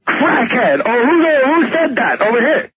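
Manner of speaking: crackhead voice. Retold or imitated. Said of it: "like a crackhead imitating Dice".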